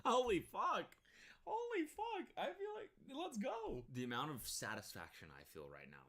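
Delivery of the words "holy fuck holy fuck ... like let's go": high, loud celebration; thrilled. Real, not acted. Streamer celebrating the cop shutting the family down, excited. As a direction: cheer the cop's takedown.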